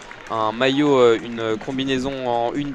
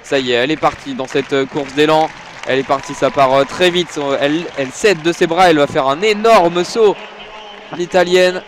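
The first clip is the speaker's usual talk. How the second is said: rising excitement; 3 semitones higher, 3 dB louder than usual. Real, not acted. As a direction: build the call up to the big leap. Saut décisif commenté en direct. (commentaire qui monte en excitation)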